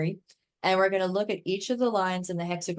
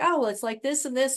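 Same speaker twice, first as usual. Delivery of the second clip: high-pitched quote; 7 semitones higher than usual. Retold or imitated. Client voiced in a story.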